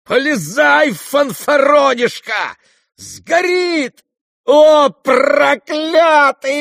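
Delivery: very high, loud, desperate cursing shout; frenzied yell. Acted. Ferdyshchenko at Ganya, screaming in a frenzy. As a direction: scream at the coward in fury. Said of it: "в решительном исступлении".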